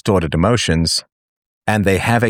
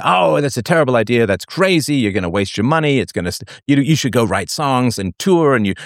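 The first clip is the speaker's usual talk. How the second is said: dismissive; 5 semitones higher than usual. Retold or imitated. Accountant dissuading audit.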